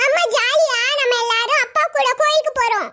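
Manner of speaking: put-on slow, sing-song childish glee; drawn-out kiddie delight; happy child. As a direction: chirp to mother like a little kid. Child happy about family outing.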